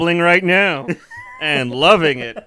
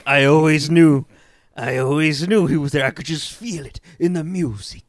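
dreamy swoon; 4 dB louder than usual. Retold or imitated. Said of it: "she's like".

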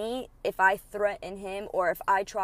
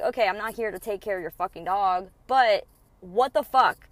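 exasperated confrontation; 5 dB louder than usual. Retold or imitated. Angie confronting her ex at his door, exasperated. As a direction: finally snap at him. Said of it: "then I'm like".

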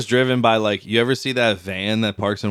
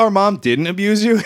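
mock brother voice; 9 semitones higher than usual. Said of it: "He's like".

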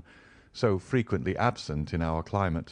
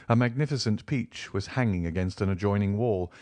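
ordinary delivery, nothing marked

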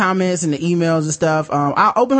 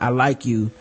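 mock African accent; 6 semitones lower than usual. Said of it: "that is a terrible African impression".

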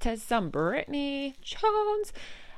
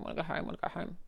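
whiny mutter; 3 semitones lower, 7 dB quieter, much faster than usual. Real, not acted. Moody in the basement.

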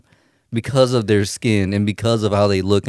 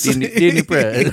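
mock Asian accent on "Didn't he, didn't he press?", a bit higher; stronger Asian accent imitation; 4 semitones higher than usual. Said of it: "the Asian accent".

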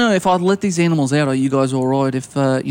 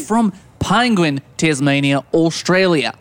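put-on Australian accent. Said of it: "by your accent that you're from Australia".

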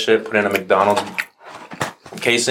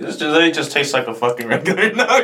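laughing; 6 semitones higher than usual. Real, not acted. Laughing at disappointing nugget.

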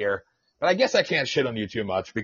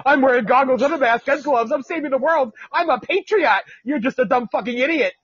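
higher, smug mock of a self-righteous mask wearer; 6 semitones higher than usual. Podcaster mocking mask wearers, higher and smug. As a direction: sneer it as a preening patriot.

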